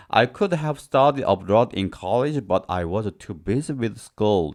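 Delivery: slow, carefully spaced sentence; slow example read. Shown as a demonstration. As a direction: read each word slowly for the class. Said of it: "example sentence read slowly".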